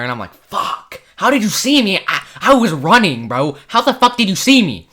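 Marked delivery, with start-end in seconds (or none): 0.3-1.0 whispered fuck under the breath; whispered curse. Retold or imitated. Caught by teacher. 1.2-4.9 disbelief. Retold or imitated. Caught after running.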